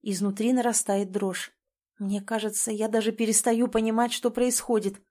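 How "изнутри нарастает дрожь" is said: ordinary delivery, nothing marked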